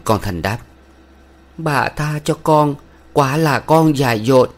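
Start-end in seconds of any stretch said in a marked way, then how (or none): 1.6-4.5 higher, pleading voice; trembling plea. A narrator's reading. Thanh begging the village head's wife for forgiveness, higher trembling plea. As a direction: beg for mercy, voice unsteady. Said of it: "Lên giọng run run".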